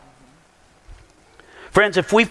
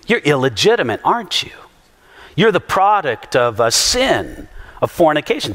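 mock accusation; 3 semitones lower than usual. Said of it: "That's what they're saying".

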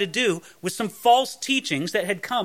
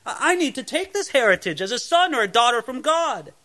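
higher-pitched, assured personal claim; confident declaration; 5 semitones higher than usual. Acted. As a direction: declare it as your rightful inheritance. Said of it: "That's a real confidence you can have".

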